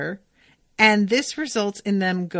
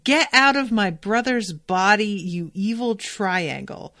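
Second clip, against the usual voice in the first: retold yell. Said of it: "she's yelling".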